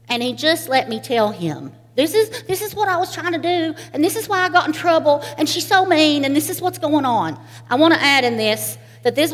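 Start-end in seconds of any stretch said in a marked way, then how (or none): 2.0-7.4 put-on higher, quick little-girl telling; upset child. Little girl telling grandpa why she's in trouble, high and fast. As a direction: tumble it out like a wronged kid. Child pouring out her complaint.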